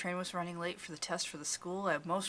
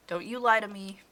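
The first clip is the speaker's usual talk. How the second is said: a touch of fury, belted out louder; higher, louder accusation with mild anger; furious; 4 semitones higher, 6 dB louder than usual. Acted. Scolding woman to the visitor, mildly furious. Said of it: "She belted out the words furiously".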